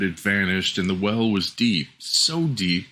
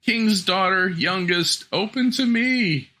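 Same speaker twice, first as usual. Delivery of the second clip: high frog voice, half-chanted rhyme; frog crying out; 9 semitones higher than usual. Acted. Frog at the door reminding the princess of her promise, high and sing-song. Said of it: "knocked a second time and cried".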